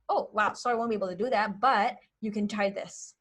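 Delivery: light, easy decline with a helpful tip; breezy sorry. Shown as a demonstration. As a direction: shrug it off and offer another way. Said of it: "So see how different that is".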